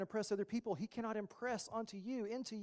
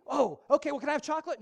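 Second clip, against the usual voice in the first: put-on higher, louder wheedling child; sly kid; 7 semitones higher, 9 dB louder, faster than usual. Child begging mom for chocolate at the store, wheedling. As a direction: wheedle like a kid who found a loophole.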